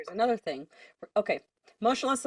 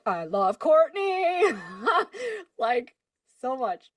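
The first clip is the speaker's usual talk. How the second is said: slow gushing high cry of fan love; excited; 5 semitones higher, 5 dB louder, slower than usual. Retold or imitated. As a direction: squeal it like a fan. Gushing about favorite singer.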